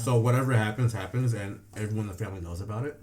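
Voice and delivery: talking with mouth full; chewing while talking. Real, not acted. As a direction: speak around a bite of food. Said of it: "Sorry, I'm talking while I'm eating".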